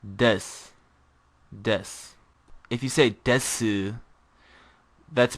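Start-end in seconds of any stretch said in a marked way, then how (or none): 0.0-0.4 "des" with a clipped ending, no final u sound; correct pronunciation. Shown as a demonstration. Teacher giving the correct form of the word, clipped. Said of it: "the actual pronunciation is". 1.5-1.9 "des" with a clipped ending, no final u sound; correct pronunciation. Shown as a demonstration. Teacher giving the correct form of the word, clipped. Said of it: "the actual pronunciation is".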